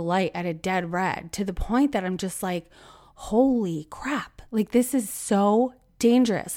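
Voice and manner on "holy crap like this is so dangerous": shocked. Retold or imitated. Shocked at red-light runners.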